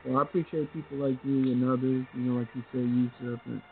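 muffled phone line; muffled bass only. Real, not acted. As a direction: caller sounds muffled and boomy. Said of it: "you kinda muffled".

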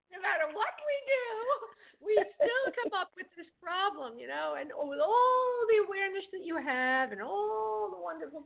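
high, laughing words spilling out; laughing while talking. Real, not acted. Reader laughing at her own joke to the caller, laughing through it. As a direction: laugh your way through the line.

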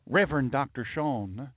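put-on a light Southern accent on the greeting. Church members asking the pastor a question, light Southern accent. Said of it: "they don't always have this accent".

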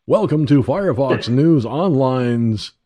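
booming show intro with echo; digital echo. Shown as a demonstration. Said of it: "Take two".

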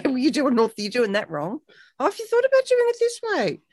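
mock the bossy friend who corrects you; sugary condescending advice; patronizing know-it-all.

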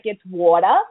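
"water" said low and rising, New York style; teacher models the New York "water"; New York accent coaching. Shown as a demonstration. A coach shows the guest her New York line. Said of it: "lesson in how to speak in, in, with a New York accent".

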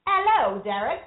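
high, slow put-on English accent; prim mock English accent, drawn out. Wife teasing husband in fake English accent, high and slow. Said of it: "I'm gonna do the whole show in an English accent".

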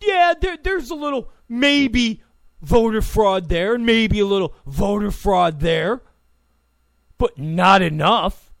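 mocking the left. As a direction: play a smug opponent admitting a little, laughing it off. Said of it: "when you hear the left go".

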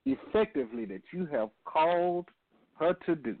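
earnest, measured radio prayer. Acted. Leads opening prayer.

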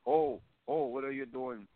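high, hammed-up surprise; mock gasp. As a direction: play startled in a squeak. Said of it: "I was like".

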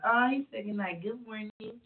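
light girlish voice, mildly put on; a hint of a dreamy girl waking up. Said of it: "That's my girl voice".

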